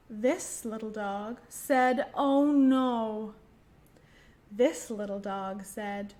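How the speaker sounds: put-on slow, sing-song rhyme for children; gentle nursery rhyme reading; finger rhyme recital. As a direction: count the puppies off slowly for little ones.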